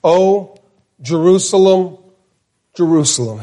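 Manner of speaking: sorrowful double call, dropping at the end; mourning a city by name; lament. Shown as a demonstration. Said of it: "He says it twice".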